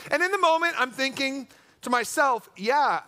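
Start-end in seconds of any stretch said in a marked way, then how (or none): 2.6-3.0 mock-agreeing sarcasm; sassy. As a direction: play along with dry sass. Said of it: "But I can't be that sassy".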